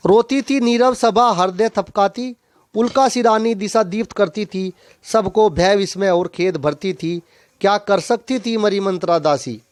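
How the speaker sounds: poetry read out to a class; verse recitation. Acted. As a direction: recite each line as metred verse. Recites poem verse before explaining it.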